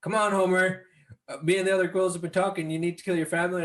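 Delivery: Moe voice. Retold or imitated. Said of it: "Moe's like".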